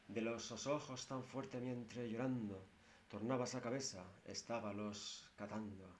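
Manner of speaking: measured epic recitation; recited old Castilian verse. Shown as a demonstration. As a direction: declaim it like a medieval juglar. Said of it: "Se la voy a recitar en castellano antiguo". (recitación solemne de verso antiguo)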